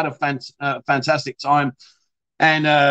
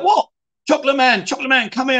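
high voice of the mama san; chirpy mock Thai mama san calling; 9 semitones higher than usual. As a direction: lightly mimic the cheery mama calling. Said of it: "And she's like".

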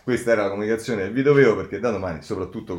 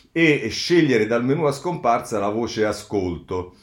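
normal talking voice

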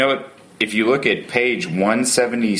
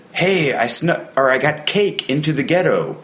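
retold prisoner quote; 7 semitones higher than usual. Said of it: "this person came and said".

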